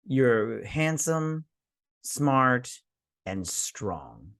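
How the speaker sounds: slow, sneering compliment; slow sarcastic toast; mock toast. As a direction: drag out each word like a false compliment.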